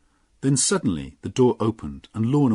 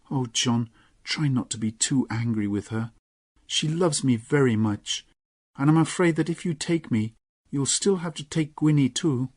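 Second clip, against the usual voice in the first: higher gentle pleading voice; Lorna, coaxing; 6 semitones higher than usual. Acted. Lorna to John, higher coaxing voice. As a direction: soften him toward Gwenny.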